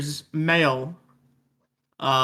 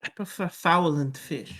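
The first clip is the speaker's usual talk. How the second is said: put-on French-accented character voice; 4 dB quieter than usual. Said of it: "said in a French accent".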